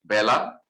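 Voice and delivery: বেলা said as "bae-la"; correct Bengali pronunciation. Shown as a demonstration. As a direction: open the first vowel of বেলা to "ae". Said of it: "এটা শুদ্ধ উচ্চারণ হচ্ছে".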